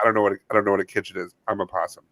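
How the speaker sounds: fast, dropping soft at the end; a hint of a bewildered possum; flustered possum. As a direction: rattle it off like a clueless animal. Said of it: "I was like".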